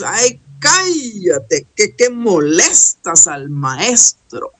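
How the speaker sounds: slow, drawn-out scolding; mock rebuke from the crowd; annoyed bystanders. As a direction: hush him with a long, exasperated drawl. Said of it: "y los otros".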